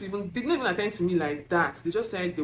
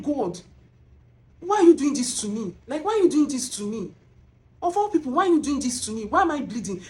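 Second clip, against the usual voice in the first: raised, desperate questioning, pitched high and pressing; anguished plea to God; 4 semitones higher than usual. Retold or imitated. Retelling her prayer to God that night, anguished and pleading. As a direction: beg heaven for an answer, half crying.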